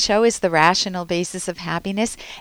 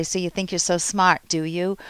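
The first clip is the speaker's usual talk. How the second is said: sneering. Retold or imitated. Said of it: "you can feel the sneer".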